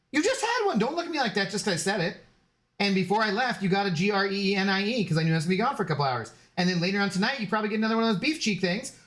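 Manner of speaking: 1 pet talk. Real, not acted. Talking to dog, high voice.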